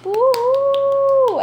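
high-pitched whoop of joy; high cheer. Real, not acted. Cheer after winner reveal.

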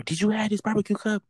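mock-sweet check with coworker; pointed question. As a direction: ask it with exaggerated sweetness to prove a point. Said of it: "I will make sure".

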